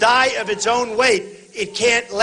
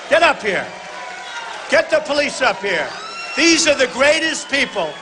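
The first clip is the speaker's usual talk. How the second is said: calling out; 4 semitones higher than usual. Real, not acted. Calling police up to stage.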